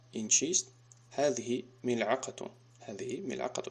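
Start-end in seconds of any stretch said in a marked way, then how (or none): 1.1-2.5 slow, deliberate classroom reading; slow model answer. Shown as a demonstration. Teacher models the answer slowly for pupils. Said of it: "teacher models the answer". 2.8-3.6 softer, quicker second reading; soft repeat. Shown as a demonstration. Teacher repeats the answer softly to himself. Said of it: "teacher repeats the answer".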